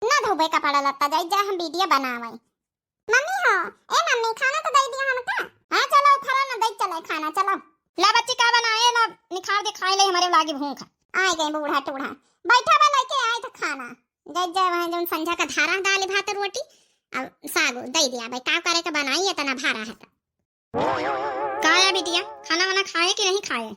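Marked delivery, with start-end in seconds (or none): 3.1-10.9 put-on child voice. Child calling mother for food. 11.1-20.1 put-on old grandmother. Grandmother arrives, grumbles. 20.7-23.7 grandmother voice. Acted. Grandmother asks the child.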